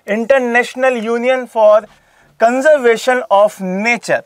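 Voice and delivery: each word of the full form said very slowly; slow dictation. Shown as a demonstration. Teacher dictating IUCN's full form to exam students, very slowly.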